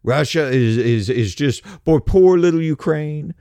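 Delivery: sarcastic, sing-song pity; mocking whine. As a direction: whine it like a pleading sob story. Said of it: "you notice they always say".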